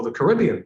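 Caribbean said ca-RIB-be-an, stress on the second syllable; other pronunciation. Shown as a demonstration. Presenter offering the other way to say Caribbean, ca-RIB-be-an. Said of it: "whichever way you wanna say it".

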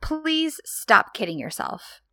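hammed-up angry son; mock angry outburst. Son to mother about absent father, mock angry.

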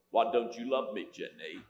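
Forrest Gump voice. Retold or imitated. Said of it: "when I do Forrest for her".

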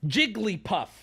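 Jigglypuff said as Jig-lee-puff, falling; three syllables. Shown as a demonstration. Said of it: "She says her name with three syllables".

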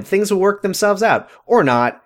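unconvincing. Retold or imitated. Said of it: "You're really selling it".

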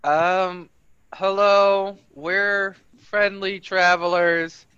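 loud, formal announcement to the trees; loud formal hail in Draconic; announcing in Draconic. Acted. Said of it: "and in Draconic say".

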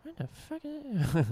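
put-on squeaky kid voice. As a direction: squeak it out like a spooked Goosebumps kid. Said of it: "or I mean more like".

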